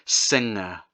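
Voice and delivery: singer with a soft back-of-throat ng, no hard g. Shown as a demonstration. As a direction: say singer letting ng hum at the back. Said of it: "the ng sound exists in words such as".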